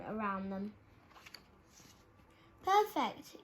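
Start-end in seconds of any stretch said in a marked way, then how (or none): 2.6-3.4 high yawning "Perfect"; yawned. A narrator's reading. Sleepy dormouse yawns at the orchestra's lullaby. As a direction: stretch "Perfect" into a sleepy yawn. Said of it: "yawned the dormouse".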